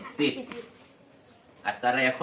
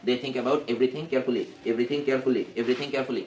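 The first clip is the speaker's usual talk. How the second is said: even, rote repetition with words run together; fluent reading drill; slower than usual. Shown as a demonstration. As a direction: build the sentence up through steady repeats. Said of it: "এরকম স্পিডে পড়তে পারতেছো".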